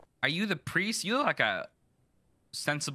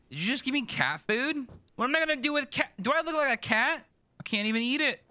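very high, louder indignant squeal; squeaky outrage; 13 semitones higher, 3 dB louder than usual. Acted. Handed cat food by a customer, protesting in a high squeal. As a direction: squeal in mock offence.

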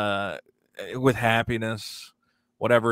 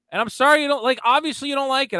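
mock whiny protester; 12 semitones higher, 3 dB louder, faster than usual. Mocking protester, high-pitched.

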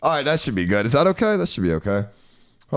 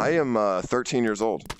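deep pitch shifted; 6 semitones lower, 4 dB quieter than usual. Real, not acted. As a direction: voice changer, pitched much lower. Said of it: "I'm using a voice changer".

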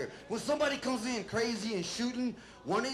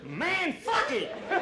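mock snapping white guy; 7 semitones higher than usual. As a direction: stretch it out like a man losing it. White guy snapping after firing.

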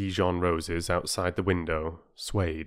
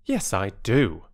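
slow, firm assertion; downright; 2 semitones higher, 4 dB louder, slower than usual. Acted. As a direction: say it squarely, leaving no room for doubt. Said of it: "said Peter downrightly".

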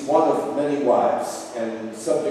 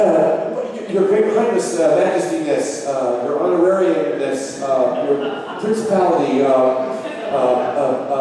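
nervous stammering. Acted. Esther stammers before the king.

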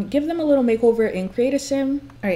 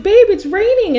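voicing the wife; 10 semitones higher, 10 dB louder than usual. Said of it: "she's like".

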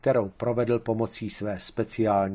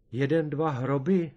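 higher, appalled question; aghast; 4 semitones higher than usual. A narrator's reading. Tomeš appalled by Kareš's plan, mildly aghast. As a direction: recoil at the idea. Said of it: "zděsil se Tomeš".

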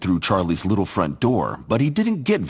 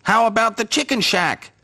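laughing; 13 semitones higher than usual. Acted. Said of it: "laughed the sparrows".

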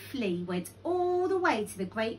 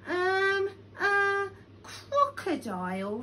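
high, halting, slow address; nervous hesitation; 10 semitones higher, slower than usual. A narrator's reading. Lion addressing Crocodile at the water hole, nervous. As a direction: stall timidly before speaking up.

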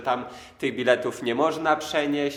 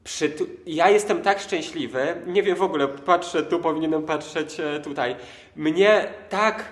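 overexcited; 2 semitones higher than usual. Real, not acted. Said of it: "tą moją ześwirowaną wersję".

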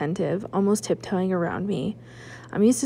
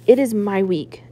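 louder, dad insisting with fire; fiery insistence; 6 dB louder than usual. Acted. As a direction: lean on "It" with a louder, angry insistence. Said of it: "fire in his voice".

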